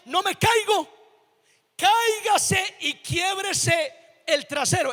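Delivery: imitated infuriated mother. Infuriated mom answers her cocky child, mock-angry. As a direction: play a mom throwing the child's words back. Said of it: "enfurecía a mi mamá a tal punto que me decía".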